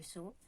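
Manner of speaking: "so" said as "sho", the regional form of yo; regional sh variant. Shown as a demonstration. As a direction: open "so" with a sh sound. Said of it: "certains pays qui ont dit".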